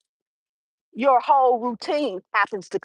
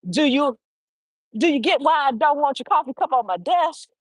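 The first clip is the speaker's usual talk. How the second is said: firm but polite. Shown as a demonstration. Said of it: "it can be firm".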